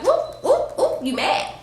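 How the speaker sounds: sing-song high taunt; mocking. To her date slamming the door, mocking taunt. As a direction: tease him for sulking.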